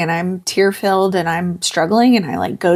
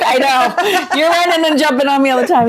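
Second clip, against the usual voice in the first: higher, laughing retelling; amused mum, laughing as she answers; 7 semitones higher, 3 dB louder than usual. Real, not acted. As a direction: talk through the laughter. Laughing retelling of son's remark.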